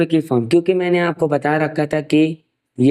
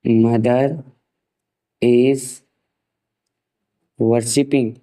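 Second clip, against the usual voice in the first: slow dictation; much slower than usual. Shown as a demonstration. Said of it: "mummy पूजा कर रही हैं".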